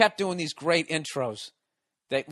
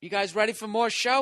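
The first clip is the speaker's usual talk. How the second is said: much higher, louder host pumping up the room; hyped emcee; 8 semitones higher, 4 dB louder than usual. Retold or imitated. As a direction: rev up a crowd that's already flipping out. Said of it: "He goes".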